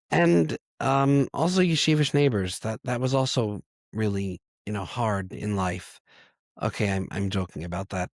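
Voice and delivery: raspy voice from a bad cold; hoarse from a cold. Real, not acted. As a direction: talk through a heavy cold. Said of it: "I sound like a dying walrus".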